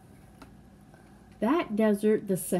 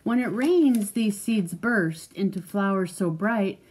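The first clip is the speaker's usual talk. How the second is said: measured, lilting picture-book read; reading to a child. Acted. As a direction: read it out clearly for a young listener.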